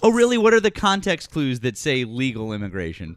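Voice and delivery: loud, incredulous "oh really"; sarcastic challenge. Real, not acted. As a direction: push back in mock disbelief. Heated debate, challenging sarcastically.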